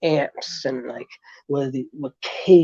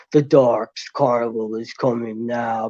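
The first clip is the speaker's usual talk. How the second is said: lower, ominous announcer voice for the show intro; dark deep voice; 5 semitones lower than usual. Retold or imitated. Retelling a wrestler's creepy show intro, in a lower ominous voice. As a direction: intone it like a carnival barker of doom, pitched low. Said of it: "like, a deep voice".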